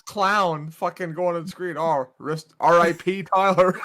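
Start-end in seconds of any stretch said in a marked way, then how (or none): 1.8-3.8 high, slow mock mourner; hammed-up graveside farewell; mock eulogy. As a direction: intone it like a fake funeral speech. Mock eulogy at own funeral.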